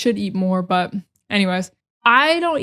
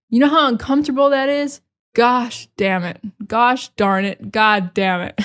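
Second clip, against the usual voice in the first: hammed-up whiny rant about a wet sock, pitch a bit up; mock temper tantrum. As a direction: play-act a dramatic meltdown, half laughing at yourself. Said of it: "be all dramatic for no reason".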